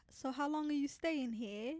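slow, careful British imitation; British accent. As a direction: try on a British border officer. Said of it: "in their British accent".

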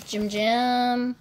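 "Jim Jim" with J in place of Ch; mispronounced nickname. Real, not acted. Fan slipping on an idol's nickname, "Jim Jim" with a J. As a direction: say "Jim Jim" with a soft voiced J. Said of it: "I said Jim Jim instead of Chim Chim".

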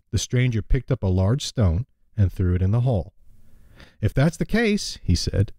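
storytelling read-aloud; lightly voiced story narration; fable reading. A narrator's reading.

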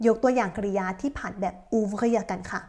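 ordinary talk, nothing marked

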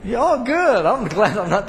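laughing warmly through the words; real laughter breaking into the words. Real, not acted. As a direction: chuckle it out, glad not to be alone. Laughing along with the congregation.

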